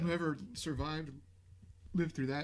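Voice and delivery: talking through hiccups. Real, not acted. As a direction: speak between hiccups. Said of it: "I got the hiccups".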